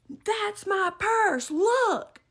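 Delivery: high, slow, emphatic claim; insistent accusation. Retold or imitated. Woman showing shopper the purse, imitated slow insistence. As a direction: imitate her spelling it out, drawn out.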